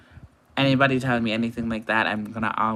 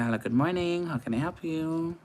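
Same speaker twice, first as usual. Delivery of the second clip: phone greeting; 5 semitones higher, 3 dB quieter than usual. Shown as a demonstration. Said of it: "I'll say".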